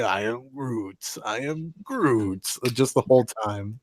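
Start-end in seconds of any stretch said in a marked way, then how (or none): 0.0-2.5 drawn-out hint of Groot. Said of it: "He's just telling you".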